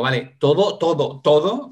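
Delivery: each "todo" pressed harder to make the client hear it; emphatic repetition. Retold or imitated. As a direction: hammer "todo, todo, todo" as if it covers everything. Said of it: "como haciéndolo, intentando que de verdad abarque todo".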